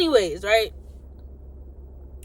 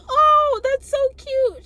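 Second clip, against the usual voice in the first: loud, squeaky high cooing; exaggerated high-pitched gush; imitated gushing girl; 8 dB louder, slower than usual. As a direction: mimic her drawn-out delight. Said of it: "She was like".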